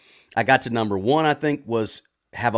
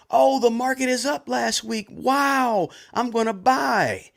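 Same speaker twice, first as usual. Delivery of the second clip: much higher, hammed-up excitement; mock excited buyer; 11 semitones higher, slower than usual. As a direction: play the eager investor chasing a rising market. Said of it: "they get emotional".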